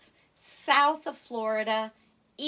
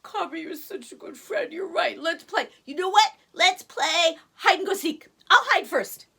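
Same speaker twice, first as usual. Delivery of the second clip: a higher, brighter cub voice; cheerful tiger cub; 8 semitones higher, 9 dB louder than usual. Acted. Baby tiger to Cabri, higher and cheerful. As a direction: perk up like a happy cub. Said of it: "Tigre said".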